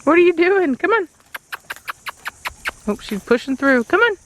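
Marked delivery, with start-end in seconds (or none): 0.0-1.1 much higher coaxing tone; high dog-talk voice. Real, not acted. 3.9-4.2 much higher sing-song coax. Real, not acted. Coaxing dog.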